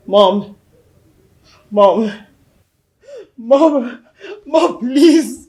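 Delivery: crying plea. Acted. Son begging his dead mother to wake, crying. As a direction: voice breaking as he begs his mother.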